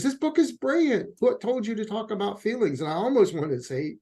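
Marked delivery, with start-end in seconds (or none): 0.0-2.8 imitated praise. Voices a therapist's written praise.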